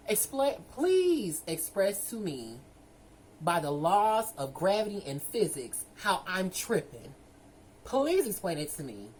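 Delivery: slow, each word laid out like a challenge; slow demanding. Real, not acted. To the man who said she was tripping, slow and pointed. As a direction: spell it out slowly to make a point. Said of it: "demanding he explain, slowly".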